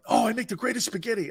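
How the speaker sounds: lightly mimicked proud mother-in-law; mother-in-law's boast. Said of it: "she's like".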